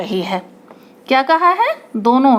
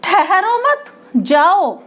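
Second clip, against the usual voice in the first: slow, higher "ठहरो मत" joined, then "जाओ" alone; "ठहरो मत" as one command, break, "जाओ"; pause after मत; 4 semitones higher, slower than usual. Shown as a demonstration. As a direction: put the comma after "मत", setting "जाओ" apart. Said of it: "अब सिमरन ने कहा".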